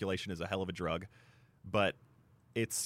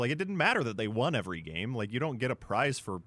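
high, louder retort of disbelief, half laughing; exasperated retort; 4 semitones higher, 4 dB louder than usual. Retold or imitated. Mocking Suns fans who hyped the bubble, exasperated high retort. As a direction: throw your hands up at the fans, pitched up high.

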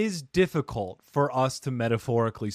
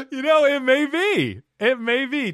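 laughing while talking; 12 semitones higher, 6 dB louder than usual. Real, not acted. Still laughing from the joke.

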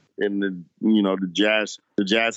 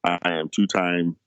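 put-on Rudy Gobert's French accent, lightly done; mock French accent; 5 semitones lower than usual. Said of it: "glancing over that accent".

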